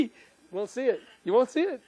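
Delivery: ordinary talk, nothing marked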